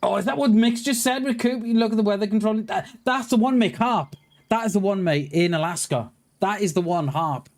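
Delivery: really fired up, pointing it out to chat; excited. Real, not acted. Streamer hyped to chat about HAARP, excited. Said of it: "You can tell I'm fucking excited".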